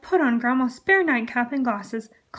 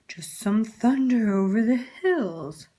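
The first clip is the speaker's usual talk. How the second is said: slow, lightly sly wolf lie; sneaky wolf; slower than usual. Acted. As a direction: fib smoothly like a sneaky wolf. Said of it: "said the sneaky".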